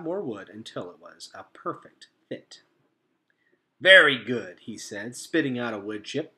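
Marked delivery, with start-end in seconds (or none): 3.8-4.6 bright, bouncy beaver; a can-do old beaver; cheerful beaver voice. A narrator's reading. Beaver character voice.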